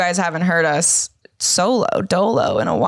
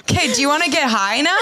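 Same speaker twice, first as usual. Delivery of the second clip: laughing quote; 5 semitones higher, faster than usual. Retold or imitated. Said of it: "I'm like".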